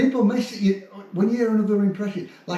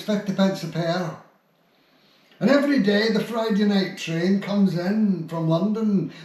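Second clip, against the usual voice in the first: Billy Connolly joke. Acted. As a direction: tell it as a Glasgow comic, unhurried. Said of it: "So I'll do the, ... mine isn't as good".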